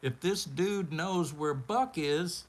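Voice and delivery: worried. Retold or imitated. Fearing for own safety.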